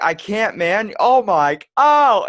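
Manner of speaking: high, loud squealing plea; mock panic shriek. Victim begs his friend to stop the ghost, shrieking.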